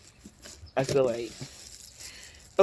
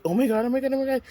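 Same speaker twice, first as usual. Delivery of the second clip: higher, breathless disbelief; shocked reaction; 11 semitones higher, 4 dB louder, much faster than usual. Retold or imitated. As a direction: react like the only one who notices. Only one reacting to shock.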